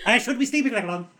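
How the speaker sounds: fast, high hammy stage voice; Shakespearean recitation. Retold or imitated. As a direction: declaim it like an overacting king. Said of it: "reciting a song's lyrics as Richard the Third".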